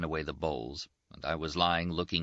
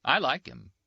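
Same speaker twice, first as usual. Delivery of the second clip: higher, a bit louder, teasing; lightly voiced Rinaldi; 8 semitones higher, 4 dB louder than usual. Rinaldi says it of the priest, higher and teasing. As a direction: say it lightly, half mocking.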